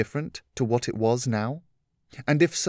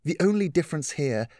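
higher woman's voice, gently explaining; lightly voiced caring mentor; patient Catherine; 5 semitones higher than usual. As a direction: reason with her kindly. Catherine continues.

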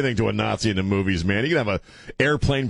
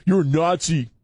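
higher, teasing mock outrage; mock accusation; 7 semitones higher than usual. Teasing the co-host, calling him a Nazi in mock outrage. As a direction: rib him like a fake prosecutor.

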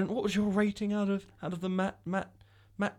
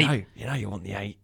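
mock seductive; 9 semitones lower, faster than usual.

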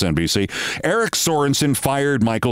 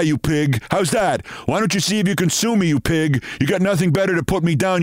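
higher and fast, spitting contempt; ranting radio host; 4 semitones higher than usual. Retold or imitated. A host quoting a caller's abuse, higher, fast ranting. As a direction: rattle off the insults like a raging talk-show host. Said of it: "Savage replied, quote".

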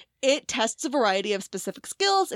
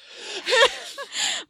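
high laugh; 13 semitones higher than usual. Real, not acted. Laughing at own story.

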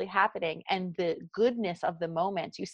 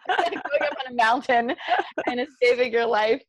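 exaggerated South Jersey accent; 4 semitones higher, 4 dB louder than usual. Shown as a demonstration. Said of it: "There went my South Jersey accent".

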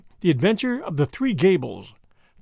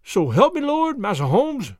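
pleading bruiser; 5 semitones higher, 3 dB louder than usual. A narrator's reading.

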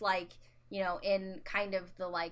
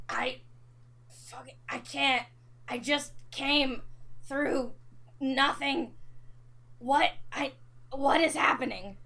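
panicked confusion; 6 semitones higher than usual. Acted. Disoriented character, overwhelmed, confused.

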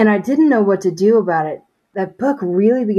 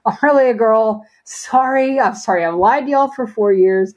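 raised higher, a mild mock rant at God; retelling her angry complaint to God, in mild mock frustration; frustrated outburst; 5 semitones higher than usual. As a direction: fling the questions up in exasperation. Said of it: "I got really mad at God".

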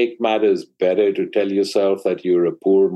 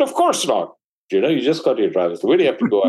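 mock mother refusal; 4 semitones higher, faster than usual. Mother refusing teenage son.

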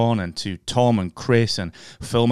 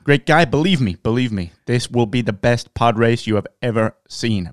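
Trump impression. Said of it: "our Bojo and Trump impressions".

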